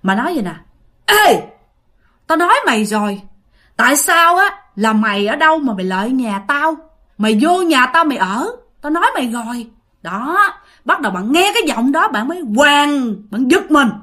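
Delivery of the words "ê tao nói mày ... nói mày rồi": put-on scolding ghost woman in a Northern accent; Northern Vietnamese accent. Ghost woman confronts the sleeper in her house, Northern Vietnamese accent. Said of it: "giọng của người đàn bà đó là giọng Bắc".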